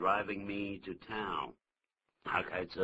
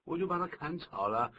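exasperated employee; 9 semitones higher than usual. Acted. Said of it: "他说".

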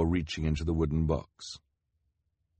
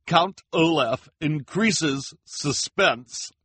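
higher, louder, slow gushing headline; higher, louder excited reporter; 9 semitones higher, 6 dB louder, slower than usual. A narrator's reading. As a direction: announce the headline with glee. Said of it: "in excitement".

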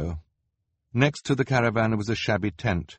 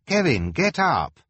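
Hugo calling; 4 semitones higher, 4 dB louder than usual. A narrator's reading. Hugo wakes Kevin.

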